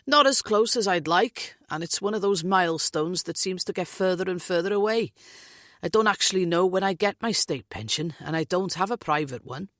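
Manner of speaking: lilting Welsh man, lightly voiced; jovial Welsh lilt; Welsh accent. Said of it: "Welsh accent lilting".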